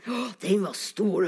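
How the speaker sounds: whispered amazement; awed whisper. Retold or imitated. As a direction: whisper it, marvelling at the size. Awed children at huge puddle. (imponert hvisking)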